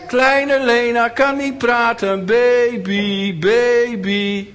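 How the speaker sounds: put-on high, loud, slow baby taunt; mocking tease. Kids mocking Lena as a baby, high slow taunt. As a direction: sneer it like a playground bully. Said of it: "lachten ze haar uit".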